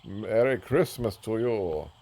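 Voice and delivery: put-on slow, playful Eastern European accent; mock Eastern European accent. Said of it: "I'm speaking with a, a foreign accent ... Eastern European".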